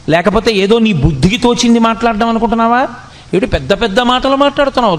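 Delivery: a teacher's rebuke, rising and pressing; stern scolding. Acted. Krishna rebuking weeping Arjuna like a guru, sternly. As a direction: scold the pupil with mounting questions. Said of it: "వాత పెట్టి మాట్లాడాడు".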